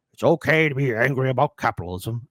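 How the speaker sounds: lightly voiced Nixon growl; a hint of Tricky Dick reading the title; Richard Nixon impression. Commentator mocking Bernie's book as Nixon. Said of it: "that's a Richard Nixon impression".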